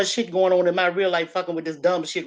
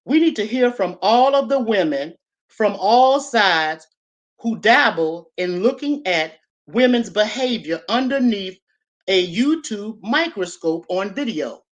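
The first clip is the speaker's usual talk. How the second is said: slow, louder mock-formal reading; mocking read of her post; 3 dB louder, slower than usual. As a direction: read her words back slowly, a bit pompous. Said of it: "She says".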